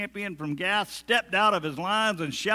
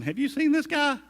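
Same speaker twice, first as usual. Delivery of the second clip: high, loud disbelief; how could you even suggest it; scared soldiers to David, high incredulous cry; 10 semitones higher, 5 dB louder than usual. Retold or imitated. Frightened soldiers about Goliath.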